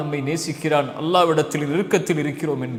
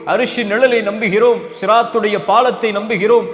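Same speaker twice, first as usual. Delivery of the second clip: building fervent preaching; 3 semitones higher than usual. Acted. Preacher driving home to his listeners a swelling chant of belief. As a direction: pile the declarations on, climbing toward a peak. Preacher lists articles of faith.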